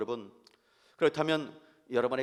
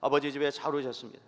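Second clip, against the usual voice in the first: brisk, lighter repeat of the welcome; quick casual greeting; faster than usual. Shown as a demonstration. Pastor models greeting again, quick and light. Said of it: "반갑게 인사하십시다".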